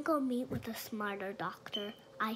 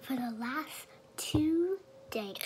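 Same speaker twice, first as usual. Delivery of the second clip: suddenly voiced, slow and louder; talking out loud; 2 semitones higher, 6 dB louder, slower than usual. Real, not acted. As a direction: slips out of the whisper into full voice. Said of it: "I don't know why I'm talking loud".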